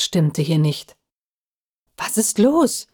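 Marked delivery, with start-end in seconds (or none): 2.0-2.9 slightly hoarse, higher-pitched question; mildly husky, uneasy question. A narrator's reading. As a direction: ask it with a touch of hoarseness. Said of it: "fragte er heiser".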